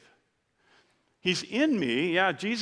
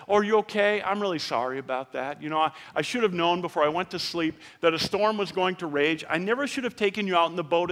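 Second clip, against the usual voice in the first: mock coddling; 2 semitones higher than usual. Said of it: "He didn't go to them and say".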